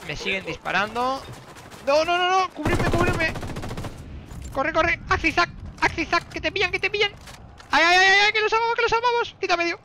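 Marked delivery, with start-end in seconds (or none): 1.9-9.8 frantic panicked yelling, high-pitched; being chased. Real, not acted. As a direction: panic while fleeing gunfire. Huyendo bajo fuego en persecución. (gritos de pánico huyendo)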